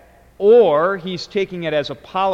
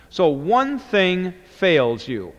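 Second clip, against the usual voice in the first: "One" stressed, slow and deliberate; slower than usual. Shown as a demonstration. Teacher giving his own translation, slow stress on "One". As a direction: land hard on "One". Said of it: "Hen is the subject".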